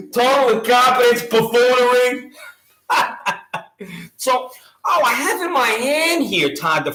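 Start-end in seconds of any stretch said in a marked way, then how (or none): 2.9-4.1 real soft laugh. Real, not acted. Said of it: "I'm trying not to laugh".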